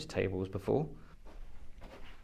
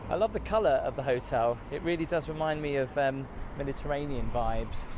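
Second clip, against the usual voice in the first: shouting over wind; 3 semitones higher than usual. Real, not acted. Hopefully you can hear me through the wind.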